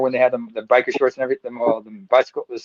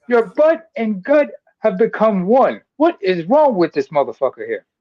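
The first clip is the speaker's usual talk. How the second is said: high, slow mock disbelief; comedian's punchline; 6 semitones higher, slower than usual. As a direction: drag it out like a roast. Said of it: "looks at Chris Christie and says".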